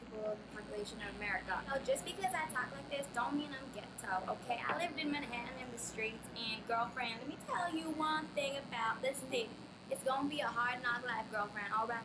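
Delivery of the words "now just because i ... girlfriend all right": sassy Manhattan street-talk accent; New York street accent. Shown as a demonstration. Demo of city accent types.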